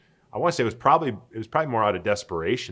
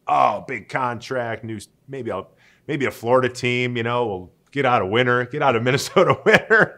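excited daydream; 4 semitones higher, 8 dB louder than usual. Retold or imitated. Imagined free-agent daydream, laughing.

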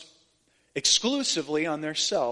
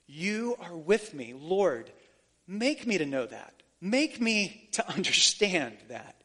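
quiet prayer. Shown as a demonstration. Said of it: "say it back to him".

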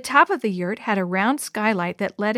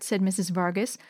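ordinary delivery, nothing marked

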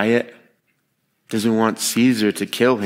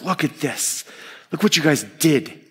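higher, mock-incredulous jab; mocking, raised-pitch reproach; 4 semitones higher than usual. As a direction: show them up, pitched higher. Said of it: "he says this mockingly".

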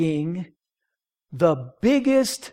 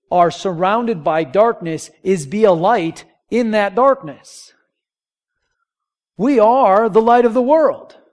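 rising, louder preached proclamation; preaching climax; 4 semitones higher, 7 dB louder than usual. Acted. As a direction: build it up to the congregation.

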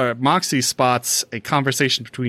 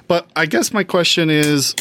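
voice cracking up an octave; 4 semitones higher than usual. Real, not acted. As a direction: voice cracks high mid-sentence. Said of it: "my voice just cracked".

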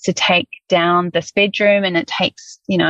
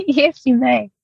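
higher-pitched reply with a laugh; 5 semitones higher than usual. Real, not acted. Woman asked to share her news, laughing. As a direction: giggle as you give permission.

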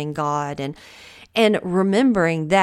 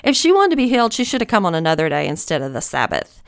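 Southern voice; 3 dB louder, faster than usual. Retold or imitated. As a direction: play up the Southern accent a little. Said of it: "in my Southern voice".

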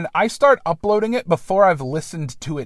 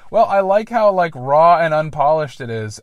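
enthusiastic director; 2 semitones higher, 8 dB louder than usual. Retold or imitated. Retelling James Cameron insisting to Horner that the rough sketch stays, loud and eager. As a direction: sell the raw take like an excited filmmaker. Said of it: "And he's like".

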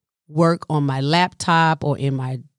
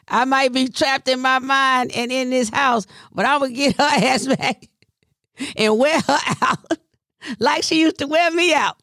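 higher, scheming mock voice with laughs; imitating mom's voice; 6 semitones higher than usual. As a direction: plot revenge gleefully, cackling. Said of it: "And she's like".

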